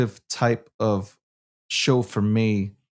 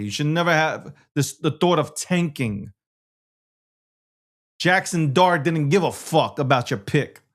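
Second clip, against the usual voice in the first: heated rant; 4 semitones higher than usual. Real, not acted. Continues sports rant.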